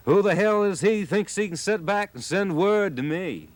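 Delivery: high, indignant challenge; a high, loud huffy demand; defiant outburst. A narrator's reading. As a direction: bristle and fire it back. Charlie defiant toward the boss.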